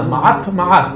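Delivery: מעט with a hard final T; מעט ending in a struck T; tongue-struck tet. Shown as a demonstration. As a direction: hit the tongue upward on the T of מעט. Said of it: "לתת מכה עם הלשון למעלה".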